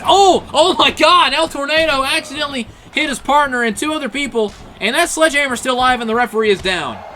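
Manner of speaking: high, loud stunned outburst; shocked. Real, not acted. Commentator stunned as a wrestler hits his own partner, shocked. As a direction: blurt it out in disbelief.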